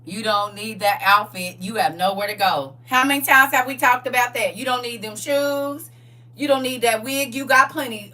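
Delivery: bossy scolding voice; Tia voice. Retold or imitated. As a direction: nag like a thrifty aunt. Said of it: "Tia voice in my head".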